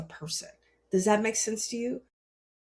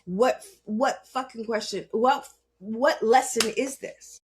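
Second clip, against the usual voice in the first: angry demand. Retold or imitated. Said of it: "And in my anger".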